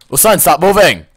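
mock scolding. Scolding the game character.

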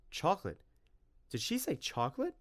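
can't believe his luck; boy hearing the word chocolate, thrilled; excited disbelief. Acted. Tim thrilled by chocolate offer.

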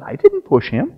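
put-on high, small innocent child voice; child's voice. Young Jesus answers the angry parents in a high child's voice. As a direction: protest like a little boy.

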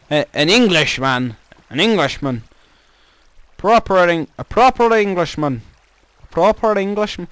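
a mild, put-on proper English accent; British accent. Shown as a demonstration. For the viewers, a lightly put-on proper English accent. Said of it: "talking like a proper British man".

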